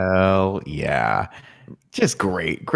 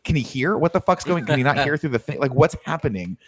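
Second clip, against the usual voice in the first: higher-pitched incredulous questioning; exasperated bafflement; 4 semitones higher than usual. Acted. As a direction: play a baffled man demanding answers. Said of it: "if I were Dent, I'd be like".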